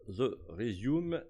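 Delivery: slow French-accented English; real French accent on English words. Real, not acted. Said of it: "vous avez vu mon accent anglais".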